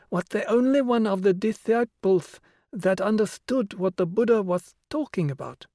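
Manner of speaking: put-on high, breathless child voice; eager little girl with a lisp. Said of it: "Breathlessly and with a lisp".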